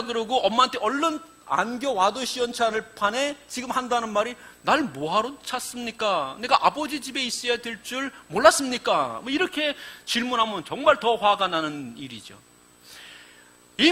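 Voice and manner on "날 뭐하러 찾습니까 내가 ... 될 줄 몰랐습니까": bratty talk-back; a cheeky boy talking back to his mother; cheeky answer. Retold or imitated. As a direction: sass the parents. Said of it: "정말 싸가지 없는 대답이죠".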